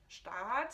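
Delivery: Staat with a long, drawn A, shtaaht. Shown as a demonstration. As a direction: stretch the A in Staat. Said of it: "il faut le dire long".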